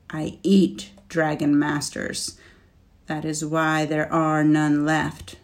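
slow, booming dragon. Acted. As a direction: speak like a proud old dragon. Dragon Scorch speaks slowly.

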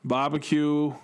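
slow, mock Northeast Boston accent. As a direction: put on a drawn-out Boston accent. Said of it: "whose accent do I put it in?".

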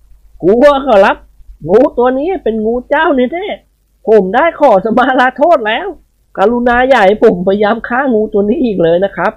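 put-on old servant pleading.

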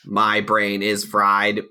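slow, even robot voice. Pretend. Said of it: "what if I say it like a robot".

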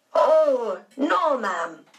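a steward hurrying to correct her; exclaiming. A narrator's reading. Steward Henry correcting Aunt Daisy, exclaiming. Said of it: "Henry exclaimed".

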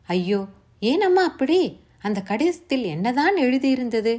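put-on urgent young listener pressing for the story; young Savitri, anxious. A narrator's reading.

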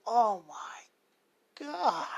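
slow breathless whisper of shock; a mother seeing the news on TV, whispering in shock; stunned whisper. Retold or imitated. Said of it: "and she goes".

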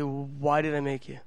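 softly voiced, low-key question from God; soft repeat. The Lord asks the preacher why, soft repeat. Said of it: "he said it again, just softly".

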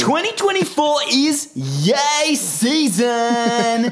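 drawn-out hype announcer call. Acted. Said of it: "forgets how to do the voice".

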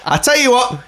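high, laughing fake delight; sarcastic high gushing. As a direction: gush over the gift, tongue in cheek. Sarcastic thanks for duvet.

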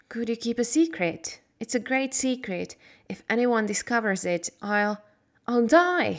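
lightly voiced anxious girl, lifting at "die"; a girl begging secrecy, a touch of fear; anxious Mary. Mary asking Dickon to keep her secret, mildly anxious.

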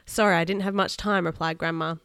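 put-on lively read-aloud voice for kids; story narration. A narrator's reading. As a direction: read the adventure to the children. Reads a children's story aloud.

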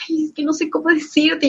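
mock almost-crying reluctance; near tears. Coworker hesitating to break news, mock near tears. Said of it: "Esa chica era casi llorando".

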